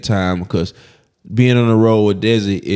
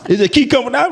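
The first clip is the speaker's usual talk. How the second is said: high, cracking crying voice through laughs; crying retold; 12 semitones higher than usual. Telling a friend how he broke down crying in London, in a high teary voice. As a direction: choke the words out like fresh tears. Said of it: "you ever been crying?".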